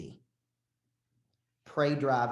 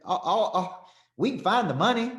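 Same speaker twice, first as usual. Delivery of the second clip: much higher and louder, laughing it off; amused reassurance; 7 semitones higher, 4 dB louder than usual. Retold or imitated. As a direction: wave the worry away, delighted. Tyler Perry reassuring, amused.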